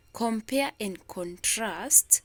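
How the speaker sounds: slow "Compare and contrast", weight on the second syllables; "Compare and contrast" drawn out, leaning on PARE and TRAST; stress on second syllable. Shown as a demonstration. Teacher reading the question for listening, "Compare and contrast" stressed on second syllables. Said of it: "the second syllable is the one".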